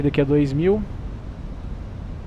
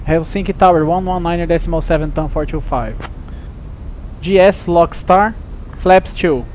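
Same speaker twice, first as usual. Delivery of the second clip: pilot cockpit headset; 11 semitones higher than usual. Real, not acted.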